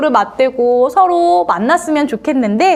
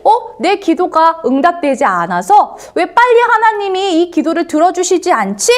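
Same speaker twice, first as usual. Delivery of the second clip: lightly acted puzzled grumble, pitched up; higher-pitched, childlike questioning complaint; mild complaining; 5 semitones higher than usual. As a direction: wonder aloud in mild protest. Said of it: "혹시 불평한 적이 있지 않나요".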